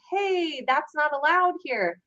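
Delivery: high, lightly put-on gentle voice; a high, easy mock heads-up; imitated polite warning. Cosplayer modelling a kinder cop's warning, mock gentle.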